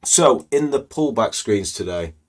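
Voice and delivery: slightly hoarse, croaky throat; rough, croaky voice after smoky night out. Real, not acted. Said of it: "my voice is a little bit, uh, croaky".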